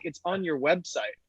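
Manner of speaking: lightly imitated Welsh caller, matter-of-fact answer; Welsh accent. Welsh customer answers the founder's question, lightly imitated Welsh accent. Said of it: "in this thick Welsh accent".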